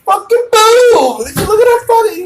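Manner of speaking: put-on high, slow shouting teenager; excited teen boy. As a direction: yell like a giddy fourteen-year-old. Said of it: "If I were fourteen, fifteen".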